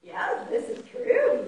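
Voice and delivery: put-on high, slow old mouse. Old mouse agreeing with the visitor, high and slow. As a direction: draw it out slowly, pitched high. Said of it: "the old mouse said".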